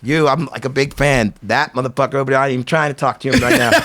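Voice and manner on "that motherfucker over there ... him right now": laughing aside. Real, not acted. Joking aside about a fellow skater.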